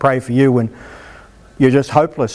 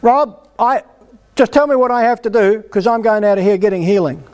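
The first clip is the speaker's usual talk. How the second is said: higher, pressing, begging the preacher not to send him away; a demanding plea pitched up; urgent, raised voice that won't take no; insistent plea; 5 semitones higher than usual. Pretend. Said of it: "So I need you to say".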